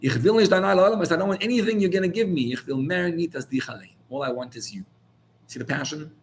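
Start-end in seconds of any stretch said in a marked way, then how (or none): 0.0-4.8 impassioned plea. Retold or imitated. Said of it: "And he would say".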